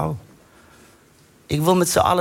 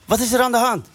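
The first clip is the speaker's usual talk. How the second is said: friendly; 6 semitones higher than usual. Retold or imitated. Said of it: "zeg heel vriendelijk".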